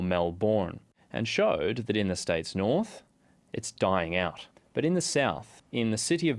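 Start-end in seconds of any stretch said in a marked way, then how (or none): 0.0-0.8 "Melbourne" with a full second syllable; full-syllable pronunciation. Shown as a demonstration. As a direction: say "Melbourne" as "Mel-born". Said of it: "instead of Melbourne or Melbourne".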